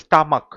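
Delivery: স্টামাক with CH sounded as a hard K. Shown as a demonstration. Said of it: "সিএইচটা কয়ের মতো উচ্চারণ হচ্ছে".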